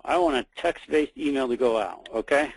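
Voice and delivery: talking around a pen; words muffled by a pen held in the mouth. Real, not acted. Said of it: "I have my pen in my mouth there".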